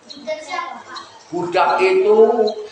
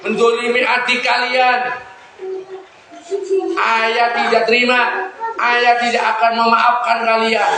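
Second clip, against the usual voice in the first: a grieving father's scolding, slightly raised; mildly sorrowful reproach; 4 semitones higher than usual. Acted. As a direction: reproach the sons with regret. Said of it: "Akhirnya ayahnya itu sedih".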